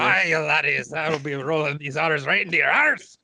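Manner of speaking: hammed-up Scottish brogue, rolling the R's; a jokey Scottish accent aimed at the table; mock Scottish accent. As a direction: roll the R's like a stage Scotsman. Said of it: "either Spanish or Scottish".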